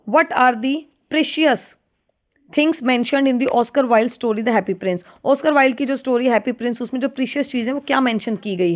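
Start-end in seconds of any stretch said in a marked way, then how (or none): 0.1-5.0 stretched-out read of the question; slow question reading. Shown as a demonstration. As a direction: dictate each word to the class. Reads exam question aloud.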